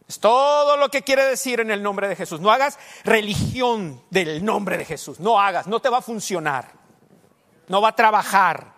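loud, slow shouted warning; full-force sermon shout; shouting preacher. Real, not acted. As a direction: thunder it at the congregation.

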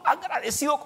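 quiet heartfelt thanks; soft gratitude. Real, not acted. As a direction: say it gently, lifted in pitch. Repeats his thanks to God softly.

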